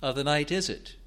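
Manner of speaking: high, loud, pressing questions; a suffering crier begging to know the hour; anguished pleading. Acted. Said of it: "So he's saying".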